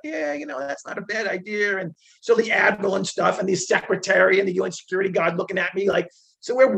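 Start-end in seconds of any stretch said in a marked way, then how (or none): 0.0-1.8 mock agreement. Retold officials agreeing.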